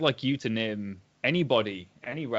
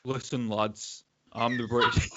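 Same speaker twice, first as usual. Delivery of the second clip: put-on Manchester accent. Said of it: "a guy from Hull doing a Manchester accent".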